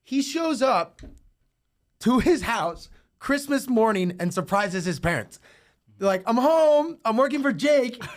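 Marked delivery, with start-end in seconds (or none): 6.2-8.0 high, loud, excited announcement. Retold or imitated. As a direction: burst in with the big news. Son surprising parents.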